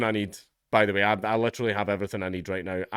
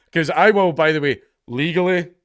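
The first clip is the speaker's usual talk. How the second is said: emphatic; 5 semitones higher, 6 dB louder than usual. Real, not acted. Proud of tax dodging.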